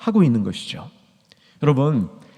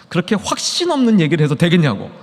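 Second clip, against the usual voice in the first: retold rebuke; 4 semitones higher, 3 dB louder than usual.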